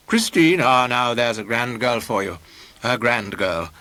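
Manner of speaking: lightly voiced pompous boaster, expansive; pompous painter. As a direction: boast grandly about your girl.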